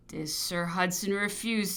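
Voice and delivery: ordinary delivery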